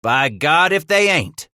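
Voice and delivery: high, loud whoop of recognition. A narrator's reading. Bridger recognizing friendly Shoshone, whooping. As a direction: whoop it out like a delighted trapper. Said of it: "Bridger whooped".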